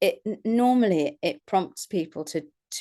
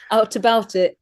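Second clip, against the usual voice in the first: louder mimicked Yorkshire phrase; echoed Yorkshire accent; 2 semitones higher, 5 dB louder than usual. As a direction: echo it in Yorkshire dialect. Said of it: "in Yorkshire".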